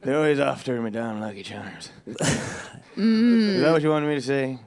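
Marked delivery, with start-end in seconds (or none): 0.0-1.9 lightly voiced Irish leprechaun; a hint of the cereal leprechaun, grumbling; Lucky Charms leprechaun. Guest answers the host's jibe as a mild Irish leprechaun. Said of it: "Now you sound like the Lucky Charms guy".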